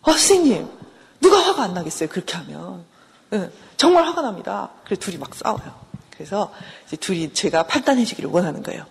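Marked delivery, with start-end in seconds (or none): 0.0-4.7 mock-indignant appeal to the counsellor; exasperated wife. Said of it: "그럼 아내는 뭐라 그러냐면".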